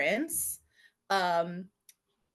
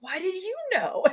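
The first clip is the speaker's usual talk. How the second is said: high, giggling mock question; laughing quote; 11 semitones higher than usual. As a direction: ask it high through a laugh. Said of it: "And she's like".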